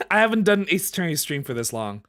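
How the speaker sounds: normal talking voice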